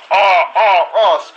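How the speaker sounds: mock exclaim. Real, not acted. Mock reaction.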